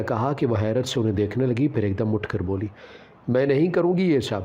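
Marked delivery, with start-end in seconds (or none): 3.3-4.4 angry refusal. A narrator's reading. Elder sister refuses her mother's demand, angry. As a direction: refuse it outright, stung. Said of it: "آپا نے غصے میں کہا".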